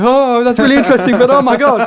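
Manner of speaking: playing impressed while terrified; mock awe. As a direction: fake being fascinated and scared at once. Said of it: "and we're like".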